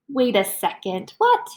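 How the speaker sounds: squeaky surprised what; mock surprise. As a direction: pretend to be caught off guard. Reader pretends surprise.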